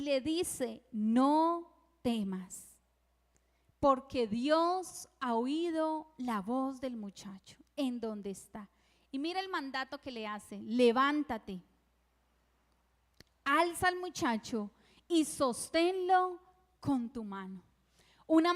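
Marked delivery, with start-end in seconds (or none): 0.9-8.7 an angel comforting a desperate mother from heaven, slow and solemn. Retold or imitated. The Lord speaks to Agar. 10.6-17.6 an angel comforting a desperate mother from heaven, slow and solemn. Retold or imitated. The Lord gives Agar a command.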